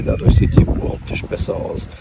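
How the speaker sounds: talking outdoors in strong wind; wind on mic. Real, not acted. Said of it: "Sorry für den Wind".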